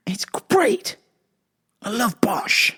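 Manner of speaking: high, airy whispered gush; hammed-up whisper. Fan gushing about favorite show, hammed-up whisper.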